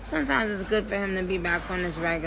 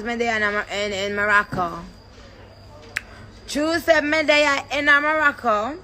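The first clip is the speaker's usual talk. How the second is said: Jamaican patois; 3 semitones higher, 3 dB louder than usual. Pretend. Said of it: "why wouldn't Jamaicans be talking like that".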